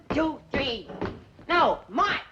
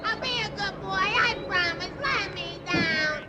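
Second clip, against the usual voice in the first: frightened pleading. Acted. Dangling jumper promises to be good, frightened pleading. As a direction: beg like a scared little boy. Begs to be let down.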